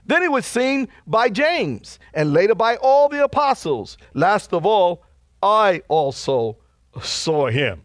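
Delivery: deliberate preacher's verse reading; scripture reading. Acted. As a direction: read it out solemnly, falling to a slow close. Reads scripture aloud to congregation.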